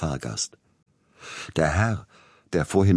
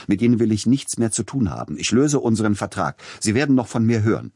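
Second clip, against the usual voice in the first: higher and louder, furious; angry outburst; 5 semitones higher, 5 dB louder, faster than usual. Acted. Tchaikovsky breaking the contract with his agent, furious. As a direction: cut him off in rising anger. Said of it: "in seiner Erregung".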